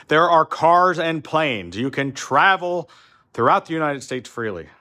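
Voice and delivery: exasperated. Real, not acted. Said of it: "I'm tired of explaining this to people".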